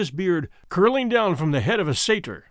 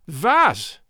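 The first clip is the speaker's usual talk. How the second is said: put-on indignant German-accented outburst; shouted contempt; 4 dB louder than usual. A narrator's reading. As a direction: cry out in scornful German disbelief. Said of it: "he cried".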